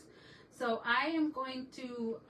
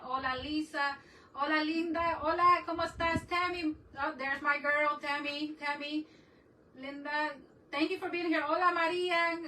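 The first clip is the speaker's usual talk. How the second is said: higher, louder, bubbly calls to each viewer; excited shouty greetings; 5 semitones higher, 3 dB louder than usual. Real, not acted. Welcoming chat friends on her live stream, excited loud hellos. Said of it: "If I sound like I'm shouting".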